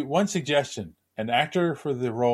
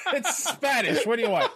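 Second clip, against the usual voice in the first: reading through giggles, pitch way up; can't stop laughing while reading; giggly high laughing read; 12 semitones higher than usual. Real, not acted. Host laughing while reading listener post.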